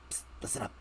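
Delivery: breathy secret whisper. Acted. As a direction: hiss it out unseen. Secret call from hiding.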